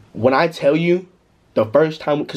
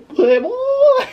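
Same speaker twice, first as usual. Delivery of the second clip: high-pitched whoop; 4 dB louder than usual. Retold or imitated. Retold nervous reply to friends.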